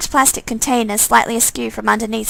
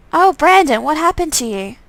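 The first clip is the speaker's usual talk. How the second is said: shocked; 5 semitones higher than usual. Pretend. Player horrified to see brother Brandon, higher. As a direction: cry out at the changed brother.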